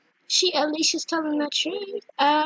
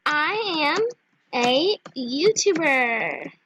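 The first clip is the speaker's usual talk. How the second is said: slow, separated words in a lowered voice; typing aloud; 4 semitones lower, much slower than usual. Real, not acted. Telling players she is a YouTuber, typing aloud. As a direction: dictate it to yourself word by word. Spelling out her chat message.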